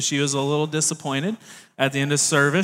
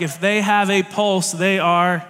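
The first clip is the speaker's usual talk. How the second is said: lowered standards, resigned; desperate shrug. Retold or imitated. Boss desperate to hire anyone, resigned. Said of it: "you're desperate to hire somebody".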